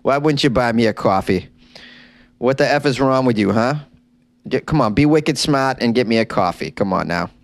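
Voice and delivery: put-on pushy Boston accent, lightly done; a touch of Boston tough guy demanding coffee. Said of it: "Oh, my Boston accent slipped out".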